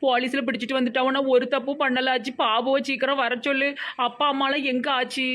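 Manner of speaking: crying out to grandma, then pleading; a scared girl begging to be believed; weepy, hurried plea; tearful pleading. Acted.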